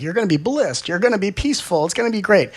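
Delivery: high, singsong overselling; mock sales pitch. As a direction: sell it with hammed-up high-pitched cheer.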